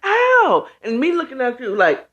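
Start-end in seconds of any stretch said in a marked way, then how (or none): 0.0-0.7 put-on child's ow. Child voiced crying out.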